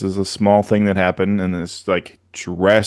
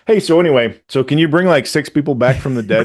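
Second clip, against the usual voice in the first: mock-casual request; 5 semitones higher, 3 dB louder than usual. Acting out casual request after agreeing.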